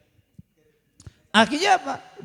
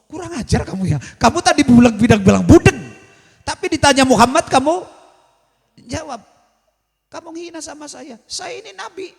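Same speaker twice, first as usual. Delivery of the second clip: louder, fast furious rebuke; angry false prophet; 5 semitones higher, 4 dB louder, faster than usual. Acted. False prophet Aswad scolding Abu Muslim, angry shout. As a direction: scold him like an insulted tyrant.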